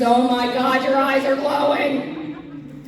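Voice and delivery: loud, drawn-out retold shock; mock-horrified outburst; alarmed. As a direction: blurt it out in mock alarm, dragging the words. Reacting to partner in haunted house.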